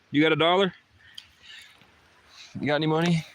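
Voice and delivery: loud, high call asking for money; calling down from tower. Real, not acted. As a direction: holler down for some spare cash.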